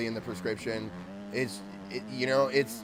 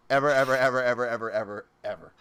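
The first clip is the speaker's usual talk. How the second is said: emphatic repetition; 4 dB louder, faster than usual. Real, not acted. Repeating "ever" for emphasis.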